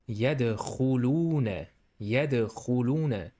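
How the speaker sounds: يدخلون with a long oo and a throaty kh; stretched oo. Shown as a demonstration. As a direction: hold the oo of يدخلون. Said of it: "You stretch oo here".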